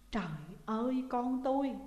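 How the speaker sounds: dazed, lightly voiced anguished mother; understated grief cry; stunned despair. A narrator's reading. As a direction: let it slip out in shock. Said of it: "Bà Hồng thất thần".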